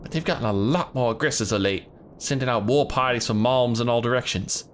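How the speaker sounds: put-on hunter leader in a southern accent; rough hunter greeting visitors in a southern accent.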